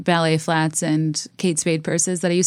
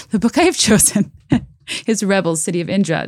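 mock serious; 2 semitones higher than usual. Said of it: "under a serious pretense".

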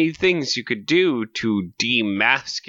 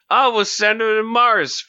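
mocking voice; 7 semitones higher, 3 dB louder than usual. Mocking racist villains.

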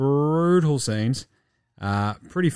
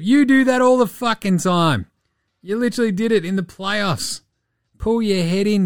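angry rant; 7 semitones higher than usual. Real, not acted. Ranting at player.

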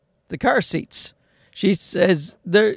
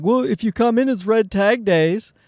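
higher, lilting mock sales call; salesperson's pitch; 5 semitones higher than usual. Car dealer phoning a customer about a sale, mock sales lilt.

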